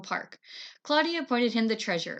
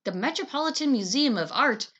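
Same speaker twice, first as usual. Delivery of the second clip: exclaiming; 5 dB louder than usual. Acted. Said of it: "he exclaimed".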